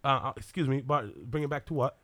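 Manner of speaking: put-on puzzled British accent; politely baffled Englishman impression; Henry Cavill. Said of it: "You do Henry Cavill".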